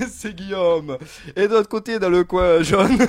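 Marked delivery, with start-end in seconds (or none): 1.3-3.0 big booming fight-night intro; boxing ring announcer. Acted. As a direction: call out each corner like a ring announcer. Host introduces guests like boxers.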